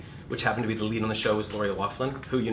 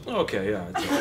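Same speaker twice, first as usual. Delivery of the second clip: calm acceptance. Retold or imitated. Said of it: "I just go".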